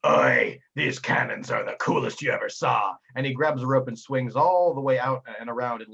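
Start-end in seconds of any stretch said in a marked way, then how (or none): 0.1-2.9 lightly voiced pirate deckhand, drawn-out Oi; a hint of a boastful sailor; Swabby Nabe. Game master as deckhand showing off cannons, lightly voiced sailor. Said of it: "Swabby Nabe says".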